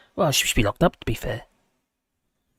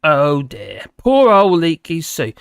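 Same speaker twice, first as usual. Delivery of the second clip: mock pity; 3 semitones lower, slower than usual.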